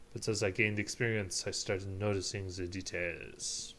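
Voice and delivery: measured, subdued reflective monologue; a hint of a solemn lawyer recalling the past; lightly voiced prosecutor. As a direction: reflect soberly on a career in law. Reads a prosecutor character's monologue.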